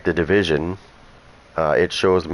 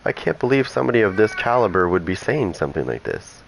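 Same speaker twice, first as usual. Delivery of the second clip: stunned disbelief; 4 semitones higher than usual. Retold or imitated. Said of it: "I was like".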